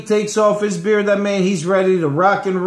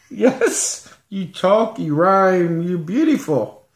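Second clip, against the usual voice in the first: put-on Mexican accent; slower than usual. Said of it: "I guess you guys rhyme when you talk".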